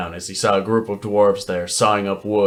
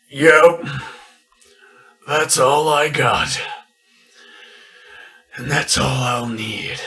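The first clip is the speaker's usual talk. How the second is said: calm defiant voice; 3 semitones higher, slower than usual. Acted. Sycamore's calm last words.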